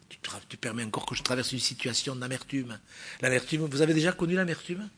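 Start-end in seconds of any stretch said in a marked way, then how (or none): 0.1-2.8 whispered complaint to the Lord; a soft whispered aside to God; whispered prayer. Acted.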